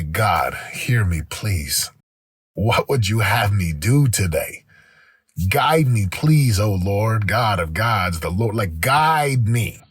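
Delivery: lightly re-enacted low-pitched plea to God; personal prayer. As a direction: demonstrate an understated morning prayer. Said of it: "my prayer".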